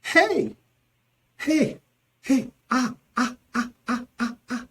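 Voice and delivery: high heys into a run of short ahs; confused cries. Shown as a demonstration. Teacher demonstrating confusion, flustered. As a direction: exclaim in rising panic of confusion.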